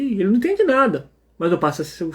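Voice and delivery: normal talking voice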